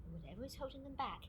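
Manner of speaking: softly confiding a nightmare; hushed confession. Acted. Recorder confides frightening dreams to colleague, hushed.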